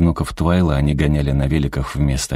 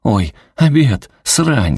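suddenly remembering; 7 semitones higher, 3 dB louder, much slower than usual. A narrator's reading. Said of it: "спохватился Уэйд".

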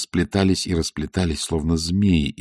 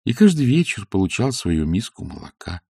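ordinary delivery

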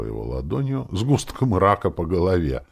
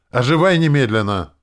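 much louder, higher command; shouting; 8 semitones higher, 9 dB louder than usual. A narrator's reading. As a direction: yell at the ghost to come back to life. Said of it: "Только и остаётся орать". (громкий приказной крик, выше)

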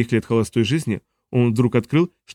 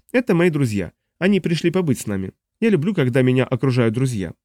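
put-on smug young man. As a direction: play the cocky grandson. Dun introduces his thugs.

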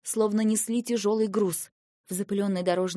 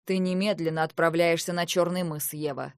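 commanding order; 4 semitones lower than usual. Acted. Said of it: "приказал Арвеэль".

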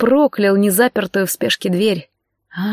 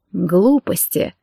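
slow, calm dismissal; slow and steady reassurance; much slower than usual. A narrator's reading. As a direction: gently brush the fear aside. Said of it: "спокойно проговорил Райан".

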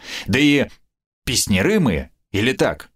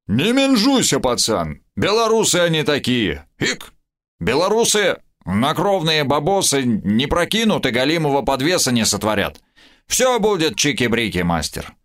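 frat bro; 4 semitones higher than usual. Acted. Drunk stalker slang with hiccup.

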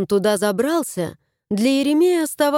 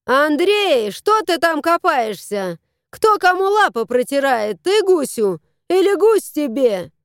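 calling out; 4 semitones higher than usual. Acted. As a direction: call out to her son. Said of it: "крикнула".

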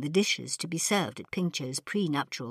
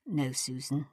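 sighing; 2 semitones lower, 6 dB quieter than usual. Acted. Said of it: "Ping Cho sighed".

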